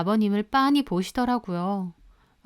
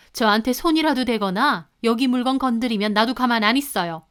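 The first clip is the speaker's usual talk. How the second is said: angry; 3 semitones higher than usual. Retold or imitated. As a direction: dare the mother to make a scene. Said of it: "화를 내며 말하더라고요".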